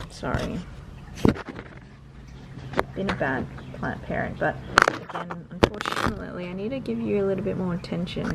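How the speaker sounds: soft apology to a neglected plant; talking to a plant. Real, not acted. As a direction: quietly say sorry to the plant. Apologising to her fiddle leaf plant.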